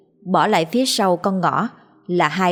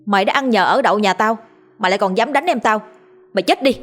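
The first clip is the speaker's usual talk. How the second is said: angry yelling; 3 semitones higher, faster than usual. Acted. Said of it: "mà quát". (giọng quát vừa phải, lên cao dần)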